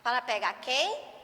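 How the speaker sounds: very slow, word by word, with long pauses; teacher dictating a model sentence to children; slow dictation. Shown as a demonstration. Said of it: "Vou fazer só uma pra vocês observar".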